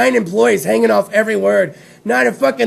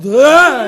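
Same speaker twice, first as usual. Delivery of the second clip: short, loud mock "ah"; imitated spider lunge; 6 dB louder than usual. Host imitating spider jumping out, mock startling yell. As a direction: burst out with a sudden mock cry.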